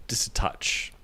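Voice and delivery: a breathy little whisper to finish the thought; whispered aside. Acted. Adding a sly final touch to the description, whispered. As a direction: drop to a whisper, just a hint.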